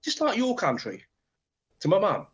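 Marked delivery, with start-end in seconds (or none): 0.0-1.0 high, lightly voiced old lady; same chatty old woman, pitched up; hint of a sweet old woman's voice; mock old lady. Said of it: "She went".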